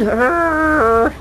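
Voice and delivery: a loud high frustrated arrgh at the snow; frustrated groan. Real, not acted. Complaining to viewers about the lingering snow, loud frustrated arrgh. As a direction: groan it out like the snow personally offends you.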